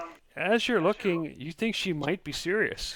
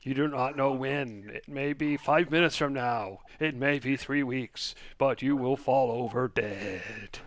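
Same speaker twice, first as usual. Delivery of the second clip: ominous fortune teller. Acted. GM voices fortune teller warning.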